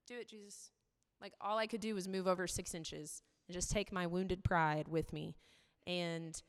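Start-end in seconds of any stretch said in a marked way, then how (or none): 0.1-0.7 much softer, letting go; surrendered prayer. Retold or imitated. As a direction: hand it over quietly. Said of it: "and being like".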